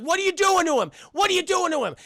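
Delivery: high, loud mock outrage; hammed-up scolding questions; upset protest. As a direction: imitate a wife demanding answers. Wife confronts husband.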